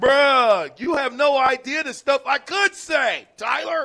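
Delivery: very high angry yell. Answering a listener's text that calls the criticism trashing: yelling at a texter. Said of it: "I'm sorry for yelling at you".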